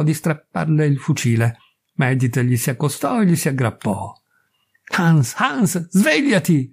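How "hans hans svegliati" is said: higher, lightly raised plea to wake up; a mild mock shout, pitched up; shouting at him. A narrator's reading. Edith clings to Hans and shouts at him, higher. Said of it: "gli gridò".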